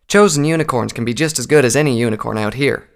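firm, mildly confident character line. Acted. Applejack defends chosen unicorns to recruits, mildly confident. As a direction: state it with assurance. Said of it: "Applejack said with confidence".

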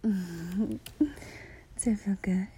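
very slow intimate whisper. Acted.

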